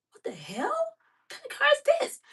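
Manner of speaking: alarmed. Retold or imitated. Alarmed at suspicious car.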